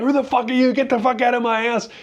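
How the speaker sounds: high, loud angry dog voice; hammed-up angry dog; dog's voice. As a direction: voice the dog yelling at a stranger. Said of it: "She was like".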